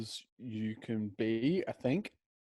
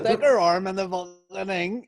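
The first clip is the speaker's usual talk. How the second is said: high, loud, slow hammed-up midwife voice; mock crude midwife; 8 semitones higher, 7 dB louder than usual. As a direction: play the foul-mouthed midwife big and slow. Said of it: "this midwife sounds well unprofessional".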